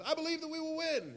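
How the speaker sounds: high-pitched sustained mock chant; rallying cry held up high; softball cheer. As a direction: imitate a girl leading the team cheer. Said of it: "they do this little cheer".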